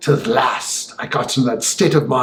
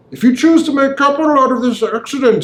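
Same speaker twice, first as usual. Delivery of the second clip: much higher, cold sneering gentleman; sneering villain; 11 semitones higher than usual. A narrator's reading. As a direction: sneer it out with cool menace. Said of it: "sneering coolness".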